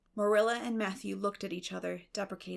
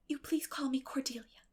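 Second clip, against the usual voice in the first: eager hushed plea; 5 semitones higher than usual. Acted. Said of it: "she said eagerly".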